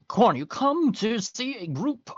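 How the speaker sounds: stretched-out storyteller delivery; game master scene-setting. Acted. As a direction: unveil the scene with lilting suspense.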